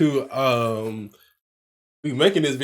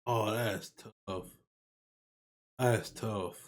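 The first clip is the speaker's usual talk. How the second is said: quiet aside; 6 semitones lower, 12 dB quieter, slower than usual. Real, not acted. Aside while watching.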